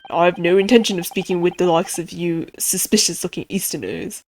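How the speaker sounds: lightly voiced gruff governor; understated scornful character voice; hostile prison governor. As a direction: refuse bluntly, in the governor's character voice.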